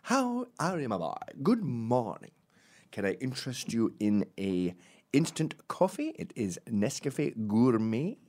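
lightly fancy Scottish, high greeting settling into courtesy; affected Scottish accent. Acted. Dad waking up and offering coffee, in a mild affected Scottish accent. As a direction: put on genteel, sweet Scottish politeness. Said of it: "And the accent is deceiving".

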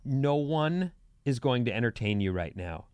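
measured, deliberate telling-off; firm parent. Retold or imitated. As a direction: spell it out for a child. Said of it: "I've struggled with my kid saying".

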